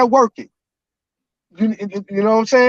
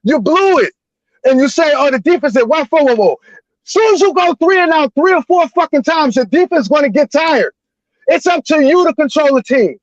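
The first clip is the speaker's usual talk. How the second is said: real fan frustration, emphatic and somewhat raised; heated sports-fan venting; worked-up yelling; 3 semitones higher than usual. Real, not acted. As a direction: rant like a fed-up, emotional fan. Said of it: "I hate to be yelling and screaming".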